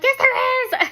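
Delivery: high, loud, wailing protest; frantic insistence. Retold or imitated. Wife contradicting her doubting husband, frantic high wail. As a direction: cry it out in mock hysteria.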